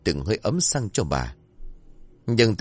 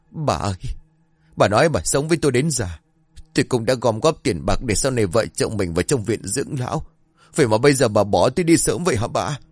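heartbroken lament; 3 semitones higher than usual. Acted. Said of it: "Những câu nói đau đến xé lòng".

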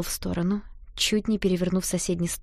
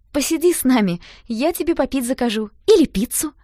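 loud, high call after him; shouted offer; 6 semitones higher, 6 dB louder than usual. Acted. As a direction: shout to make him stop. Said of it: "крикнула я". (громко и высоко, вдогонку)

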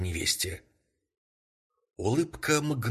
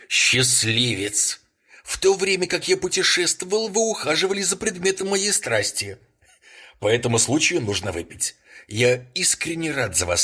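much higher, louder overdone congratulations; exaggerated delight; 6 semitones higher, 6 dB louder than usual. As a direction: shout your joy a bit too hard. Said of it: "с преувеличенной восторженностью крикнул".

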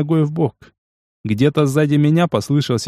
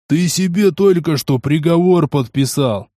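yelling; 3 semitones higher than usual. Acted. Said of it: "заорал он".

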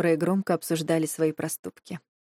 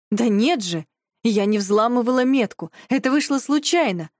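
louder, higher flustered denial; 5 semitones higher, 4 dB louder than usual. Acted. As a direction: panicky protest. Panicked self-defence.

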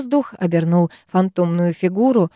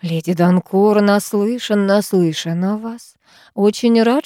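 lightly voiced mannered tailor, drawn vowels; affected couturier. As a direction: draw out the vowels, a hint of affectation. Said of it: "манерно тянул гласные, грассировал".

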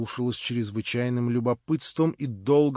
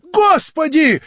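much higher, louder, proud; Marya, defiant; 14 dB louder, slower than usual. A narrator's reading. Marya scorns her would-be prince, high and loud. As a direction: cry it out with haughty scorn.

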